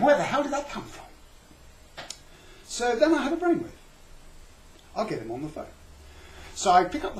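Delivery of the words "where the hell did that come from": high, loud alarmed cry with a laugh in it; hammed-up fright; startled flatlander. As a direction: play the poked little guy, jumping out of his skin. Scared two-dimensional creature prodded.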